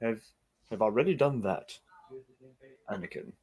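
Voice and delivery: distant tv audio bleeding in; movie sound from another room; tv through wall. Real, not acted. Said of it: "your T V is loud".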